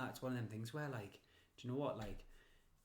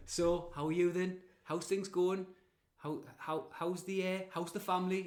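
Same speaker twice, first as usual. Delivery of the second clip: higher, slow, nosy small-talk voice; chatty acquaintance; 4 semitones higher than usual. Retold or imitated. Mocking someone who corners you for a chat. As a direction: pester with slow polite questions. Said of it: "they go like".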